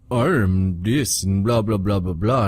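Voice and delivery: slow, mocking parody of a pompous character; mocking Jaw. Gamer mocking a game character he hates, in a slow put-on drone. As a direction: drone on like a self-important bore. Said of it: "He's like".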